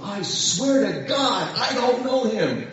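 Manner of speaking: slow, drawn-out sworn denial; emphatic oath. Acted. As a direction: swear it solemnly, stretching the words. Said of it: "this time with an oath".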